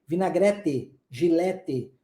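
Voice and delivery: "Vinagrete, gilete" with a plain hard t. Shown as a demonstration. Teacher imitating southern Brazilian hard t. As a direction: say the t of "gilete" as t, not tch. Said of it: "a pronúncia é o quê?".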